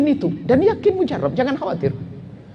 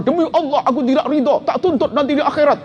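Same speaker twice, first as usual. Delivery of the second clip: grudging oath; 9 semitones higher than usual. Retold or imitated. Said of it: "Uh, serem banget".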